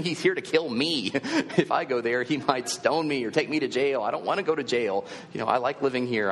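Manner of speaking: hammed-up reluctant believer pleading his case; protesting Ananias. Ananias balking at God's order to find Saul, comic protest. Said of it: "And he's like".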